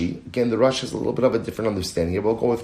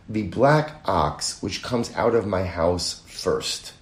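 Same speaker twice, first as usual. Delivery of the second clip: slow, spaced-out wording with weight on "black" and "first"; measured quote leaning on "black", landing on "first"; deliberate emphasis; slower than usual. Shown as a demonstration. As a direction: spell out "black" and "first" slowly, word by word. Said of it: "the emphasis was on black".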